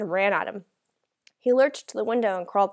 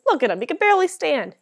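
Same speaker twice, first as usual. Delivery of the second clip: louder, higher-pitched taunt; scornful robber, voice raised; loud jeering; 7 semitones higher, 7 dB louder than usual. A narrator's reading. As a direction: jeer at the frail old man. Attacker mocks frail grandfather.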